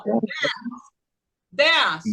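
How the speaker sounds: "dance" firmly punched with a falling tone; first-syllable stress. Shown as a demonstration. Teacher models the first syllable for the class, stressed. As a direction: hit "dance" as one strong syllable. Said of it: "primeira sílaba".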